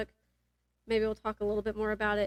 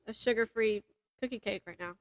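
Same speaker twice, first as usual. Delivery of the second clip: mouth full; 2 semitones lower, 5 dB quieter than usual. Real, not acted. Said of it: "Sorry, I'm eating".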